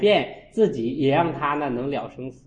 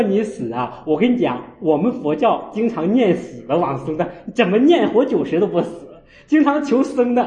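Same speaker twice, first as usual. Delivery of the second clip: 1 teasing laughter; 4 semitones higher, 4 dB louder than usual. Retold or imitated. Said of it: "我说".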